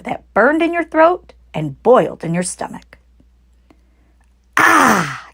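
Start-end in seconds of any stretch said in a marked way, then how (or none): 4.6-5.3 gasped. Acted. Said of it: "gasped the smallest fox".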